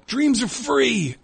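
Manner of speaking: drawn-out, high-pitched yell; imitated scream. Friend screaming out of a car window, drawn-out mock scream. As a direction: holler it long and high, like the friend. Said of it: "my friend used to scream".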